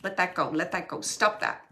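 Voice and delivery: a brother's annoyed telling-off to his sister. Retold or imitated. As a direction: tell her firmly to drop it. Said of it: "he's annoyed about that".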